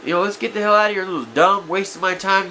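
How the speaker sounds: mock-irritated outburst, pushed up high; mad. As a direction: retell an impatient, fed-up demand to leave. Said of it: "I'm just mad. I'm like".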